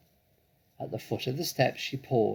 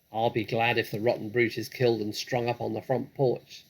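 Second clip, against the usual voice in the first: calling out; 7 dB louder than usual. Acted. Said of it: "she called out".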